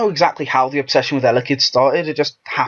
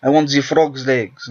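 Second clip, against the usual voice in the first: French accent. Shown as a demonstration. Demonstrating French with hand gestures for a friend, French accent. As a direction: play up a stereotyped French accent. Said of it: "the French accent".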